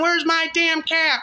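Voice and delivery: slow, high, loud demand for the cat; yelling at the restaurant. Acted. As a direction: stretch it out as a furious, high shout. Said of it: "Yelling to a bunch".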